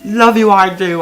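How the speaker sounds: high, loud screeched affection; screeching Yoda. Acted. Yoda kissing the Jedi, high and loud. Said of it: "I screeched".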